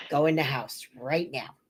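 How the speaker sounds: mock-stern husband, pitched well down; husband's stern order.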